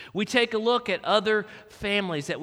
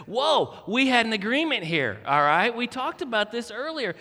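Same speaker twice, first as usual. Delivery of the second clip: mock stern; 3 semitones higher, 3 dB louder than usual. Dad scolding screaming baby.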